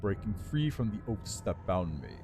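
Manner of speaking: lightly voiced regal undead lich; haughty undead lord, measured and cool. Lich tells his story.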